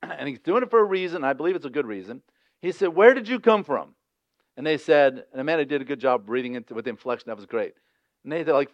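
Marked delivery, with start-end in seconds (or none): 2.9-4.0 louder, higher gruff demand; rough questioning. Retold or imitated. Joseph speaking roughly to his brothers, a gruff loud demand. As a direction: bark the question at strangers. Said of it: "he speaks roughly to them".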